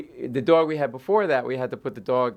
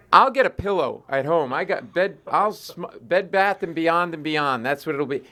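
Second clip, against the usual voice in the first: mock ranting; 4 semitones higher, 3 dB louder than usual. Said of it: "then I really snap".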